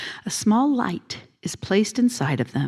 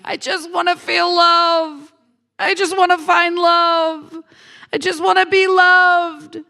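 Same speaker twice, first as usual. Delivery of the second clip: mock yearning; 7 semitones higher than usual. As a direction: plead it high, stretching the last word. Voicing people's lifelong yearning.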